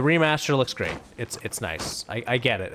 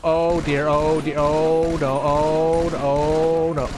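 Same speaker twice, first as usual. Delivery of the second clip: panicked cries; 3 semitones higher, 4 dB louder, slower than usual. Real, not acted. Panicking during a game fight.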